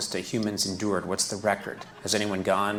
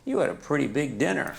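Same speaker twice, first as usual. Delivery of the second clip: talking toilet; 5 semitones higher than usual. Pretend. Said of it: "the voice of a new toilet".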